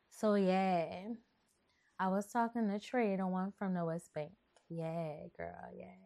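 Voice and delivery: lightly voiced New Orleans girl chatting; Kitty. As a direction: fake New Orleans accent. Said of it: "I'm gonna do Kitty for y'all".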